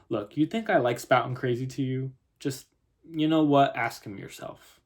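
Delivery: exasperated Southern mother, lightly voiced; touch of Southern, punching "you know what"; Southern accent. Mother tells policeman to ask the boy, exasperated Southern accent. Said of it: "if I have a terrible Southern accent".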